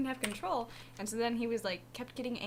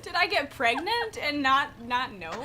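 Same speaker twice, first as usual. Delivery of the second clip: louder, laughing mock panic; laughing disbelief; 3 semitones higher, 7 dB louder than usual. Imitating her shocked reaction to her sim, laughing. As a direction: gasp it out half laughing. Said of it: "And I was like".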